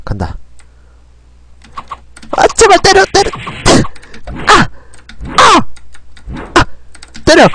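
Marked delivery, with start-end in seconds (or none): 2.4-7.4 desperate pleading. Real, not acted. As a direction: beg the hit to land. Begging attack to land.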